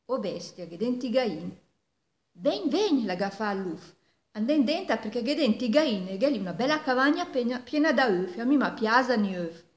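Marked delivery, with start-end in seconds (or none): 2.3-9.6 eager fox. Acted. Fox eagerly calling the wolf.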